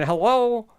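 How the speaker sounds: "Hello" lifted high and loud; still going up. Shown as a demonstration. Host retrying the greeting, voice still going up. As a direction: swing "Hello" upward. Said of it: "That still went up".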